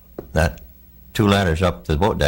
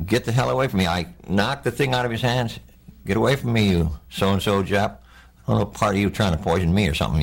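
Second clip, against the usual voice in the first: angry outburst; 3 semitones higher than usual. Retold or imitated. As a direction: push him away with your voice. Retold panic at orderly.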